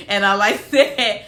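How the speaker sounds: laughing through the words; amused. Real, not acted. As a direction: say it on the tail of a laugh. Still laughing about his family.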